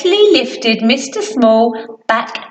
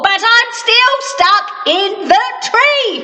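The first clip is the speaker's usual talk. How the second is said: mildly unhappy Mister Small; 8 semitones higher than usual. Acted. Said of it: "unhappy Mister Small".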